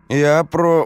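cut-off high shout. A narrator's reading. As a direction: yell in protest, cut short. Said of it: "успел закричать Колька".

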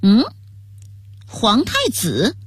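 slow, puzzled question. Acted. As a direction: ask it in disbelief. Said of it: "疑惑地问道".

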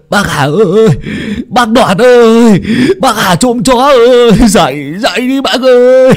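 high, loud frantic calls through the door; calling out at night. Acted. Boy at the door calling old Hà awake, shouting. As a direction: shout to wake someone urgently. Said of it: "có người gọi ý ới".

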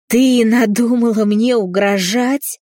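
a father roaring at his daughter's threat. A narrator's reading. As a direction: bellow like a wounded bison. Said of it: "взревел раненым бизоном отец".

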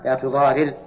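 لا تضارر with kasra on the first r; active form spelled out. Shown as a demonstration. Teacher repeating the active form, r split with i. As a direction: say لا تضارر as tuḍārir. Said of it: "كذا".

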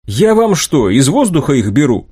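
a touch of outrage in a rhetorical question; indignant. Acted. Young inventor pushed by his mentors for ideas, indignant. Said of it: "возмутился я".

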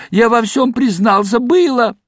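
high, loud hysterical cry; hysterical shout. A narrator's reading. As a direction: shriek it out in panic. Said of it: "истерично закричал Гилёвич". (истеричный крик)

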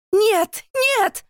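extremely high, loud cries of no; anguished screams. Acted. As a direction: sisters screaming in protest. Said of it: "кричат".

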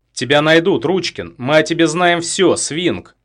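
high, loud defiant shout. A narrator's reading. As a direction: shout it as a last card. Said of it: "выкрикнула Петелина". (выкрикнуто с вызовом)

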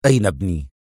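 low, firm demand; stern. A narrator's reading. Father demands his son's whereabouts, stern. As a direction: demand it sternly, pitch dropped. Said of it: "وهو يسأل بصرامة".

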